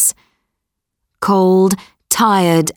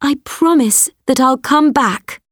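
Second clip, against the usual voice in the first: put-on higher, earnest girl voice; promising daughter, pitched up; young girl voice; 6 semitones higher than usual. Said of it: "she said to the beast".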